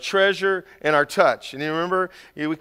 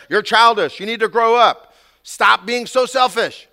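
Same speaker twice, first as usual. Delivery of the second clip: loud, emphatic telling-off; mock scolding; 3 semitones higher, 6 dB louder than usual. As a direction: scold like a fed-up parent. Acting out adults scolding the child.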